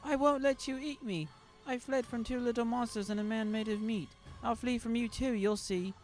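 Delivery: high, loud desperate shout; high frantic child's shout. A narrator's reading. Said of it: "yelled out much louder".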